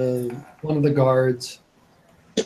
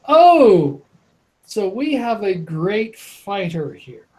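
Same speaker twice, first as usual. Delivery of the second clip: mocking; 5 semitones higher than usual. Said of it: "leans back and laughs".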